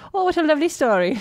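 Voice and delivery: high, quick, gushing mock-Irish priest; bad Irish accent. Priest delighted by the girl's story, bad Irish accent. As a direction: gush loudly in bad Irish. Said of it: "I apologize for my bad accent".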